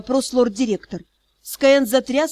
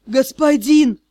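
lisping, louder pleading call; 4 dB louder, slower than usual. Acted. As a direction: lisp through missing teeth. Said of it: "шепелявый голос заклинателя".

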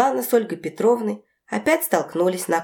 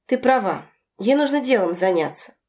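ordinary delivery, nothing marked

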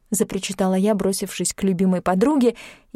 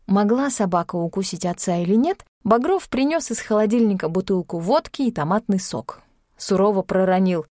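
ordinary delivery

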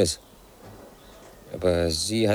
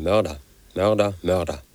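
screaming at driver; 3 dB louder than usual. Acted. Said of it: "hab ich geschrien".

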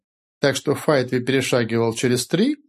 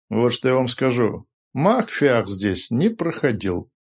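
confident; slower than usual. Acted. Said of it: "с уверенностью сказал Рори".

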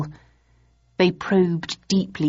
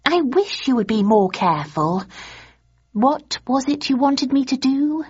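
scolding; 8 semitones higher than usual. A narrator's reading. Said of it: "she scolded".

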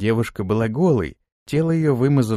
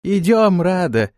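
high, louder call to the stranded woman; 7 semitones higher, 4 dB louder, slower than usual. Acted. Fransi calling to Rada that help is coming, loud call. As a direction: shout to her that help is coming. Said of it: "крикнула Франси".

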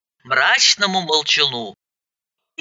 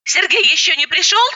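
higher, eager question; young woman voice; 12 semitones higher than usual. Acted. Fiancée asking after Sergei, higher eager voice. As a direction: ask brightly, voice lifted. Elena's voice.

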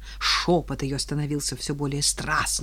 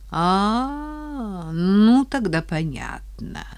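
cold angry; 4 semitones higher, much slower than usual. Acted. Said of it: "холодный, злой голос".

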